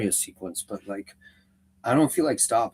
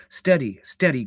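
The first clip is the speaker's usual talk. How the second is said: a mild warning cry, a little louder; Gandalf cries out; 3 semitones higher, 4 dB louder than usual. Acted. Gandalf to Merry and Pippin, mild warning cry. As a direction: call the hobbits back, firmly. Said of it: "cried Gandalf".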